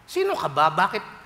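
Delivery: indignant widow. Retold or imitated. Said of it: "gusto niyang hambalusin".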